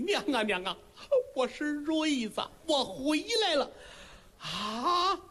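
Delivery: high, crying plea at his mother's knees; weeping son. Acted. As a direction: sob it out, kneeling by the bed. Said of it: "娘俩抱着一块儿是放声痛哭啊".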